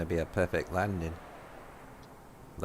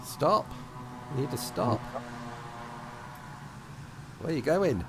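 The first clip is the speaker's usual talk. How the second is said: alarmed; 3 semitones higher, 5 dB quieter than usual. Real, not acted. Friend taking off again by mistake.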